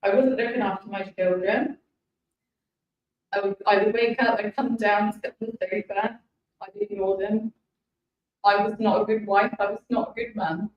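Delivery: real, choked-up confession; halting, with long pauses, holding back tears; emotional. Real, not acted. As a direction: struggle to keep composure while confessing. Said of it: "sorry if I get emotional".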